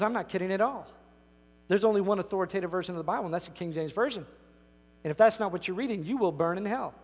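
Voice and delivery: stern pastor. Retold or imitated. Pastor threatens hell.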